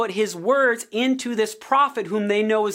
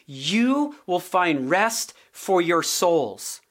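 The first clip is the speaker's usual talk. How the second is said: gentle promise; 4 semitones lower, much slower than usual. Retold or imitated. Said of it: "he says".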